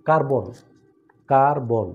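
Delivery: কার্বন stretched into two beats, কার-বন, each time; teacher sounding out the two syllables of কার্বন. Shown as a demonstration. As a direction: say কার্বন slowly and firmly in two steps. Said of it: "দুইবার দুইটা step নিতে হয়".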